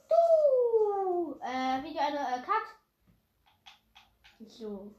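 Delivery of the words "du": loud pointed yell; accusing shout. Real, not acted. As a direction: shout it at him.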